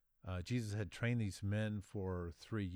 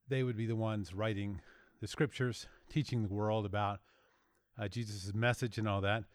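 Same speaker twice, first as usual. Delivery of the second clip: out of breath. Real, not acted. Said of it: "Pardon me, I'm out of breath".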